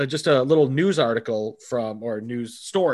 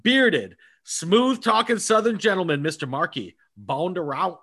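announcer hype; 3 semitones higher than usual. Acted. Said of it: "hyped-up host introduction".

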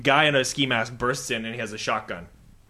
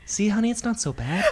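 husband's punchline; 8 semitones higher than usual. Retold or imitated. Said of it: "pulls his mask off and says".

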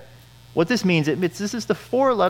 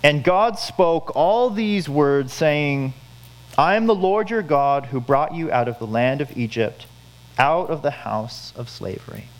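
scripture reading. Shown as a demonstration. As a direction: read it out slowly like holy words. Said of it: "This is God's word".

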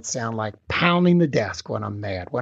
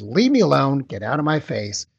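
a mock angry outburst, louder at the start; upset teen; 2 semitones higher, 5 dB louder than usual. Teen lashing out at parent on third question, mock angry yell. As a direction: push the parent away with a mild yell. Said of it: "gets very upset".

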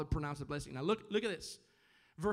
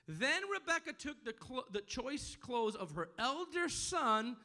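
raised, emphatic preacher's reading; scripture reading; 7 semitones higher, slower than usual. Acted. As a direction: read the verse out to the congregation. Reads scripture aloud to congregation.

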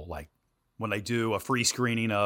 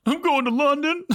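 high, loud mock sobbing whine; tearful imitation; 5 dB louder than usual. Answering the news director on the phone in a mock sob. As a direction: wail it like you're mid-cry. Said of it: "Are you crying about going to London?".

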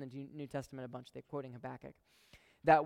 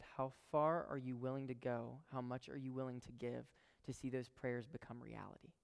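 very serious; 5 dB quieter than usual. Retold or imitated. God asks the preacher, very serious and hushed. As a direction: lay the question down gravely, quietly. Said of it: "he got very serious".

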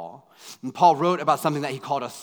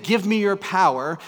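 loud, higher demand; 7 semitones higher, 9 dB louder than usual. Retold or imitated. Paul demanding power from God, loud and high. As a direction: insist on it with full force.

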